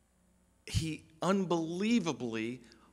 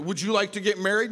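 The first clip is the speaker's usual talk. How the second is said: pushy question; 8 semitones higher, 5 dB louder, faster than usual. Retold or imitated. Ken pressing the couple.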